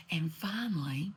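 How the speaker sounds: a dramatic whispered finally; hushed. Real, not acted. Storyteller whispering the big reveal to her listeners. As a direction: drop to a whisper for suspense.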